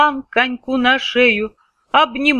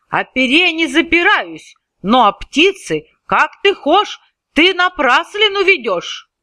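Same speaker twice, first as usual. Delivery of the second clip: shouting protest; 6 semitones higher than usual. Acted. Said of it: "закричал он, утираясь".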